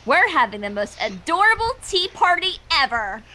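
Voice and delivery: creepy sweet invitation; eerie cheer. Acted. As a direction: sound cheerful but menacing. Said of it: "eerie cheer".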